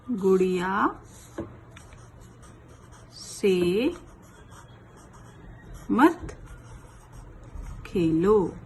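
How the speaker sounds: one word at a time with long pauses; slow dictation. Shown as a demonstration. Teacher dictating the sentence word by word, slowly. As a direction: dictate slowly so children can write. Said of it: "कैसे लिखेंगे?".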